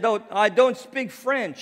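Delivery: high, loud, exaggerated retort; overdone protest. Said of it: "not like that, but".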